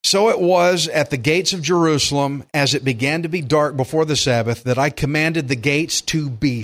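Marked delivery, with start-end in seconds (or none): 0.0-2.4 solemn, measured Bible reading over music; a lightly voiced stern Nehemiah; scripture reading. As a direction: read the rebuke like scripture. Reads scripture aloud.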